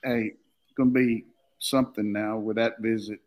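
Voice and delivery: normal talking voice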